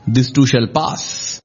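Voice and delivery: slow calm answer to his brother; calm, slow reply. Acted. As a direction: settle him down slowly. Yudhishthira calmly answers Bhima.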